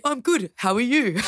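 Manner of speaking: lifted, courteous retold greeting; polite reply. What the newcomer is supposed to answer, polite. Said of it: "I'm supposed to say".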